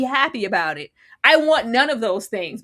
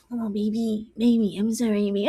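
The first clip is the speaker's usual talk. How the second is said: mock whiny apology. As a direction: whine the sorry. Mocking Rick's whiny apology.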